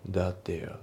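THAT THERE run together as "da-dea"; linked pronunciation. Shown as a demonstration. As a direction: join THAT THERE smoothly, British style. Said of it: "じゃなくて".

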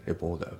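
レポーター with the T softened to a D; voiced T. Shown as a demonstration. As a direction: say レポーター like "reporder". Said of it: "Dで濁りますね". (Tが濁ってDになるレポーター)

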